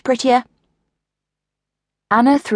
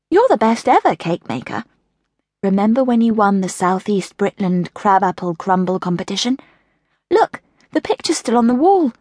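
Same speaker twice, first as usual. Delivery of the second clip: put-on child voice; 3 semitones higher than usual.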